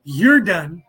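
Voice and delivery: loud, punchy TikTok catchphrase; loud quote. Retold or imitated. Quoting a TikTok creator to the viewers, loud and punchy. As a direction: belt it out like a creator's tagline. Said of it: "as what's her name says on TikTok".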